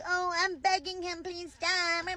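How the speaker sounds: a hint of a sarcastic plea; mock begging farmer. Commentator mocking the farmer's plea, in a sarcastic whine. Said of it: "And now you're like".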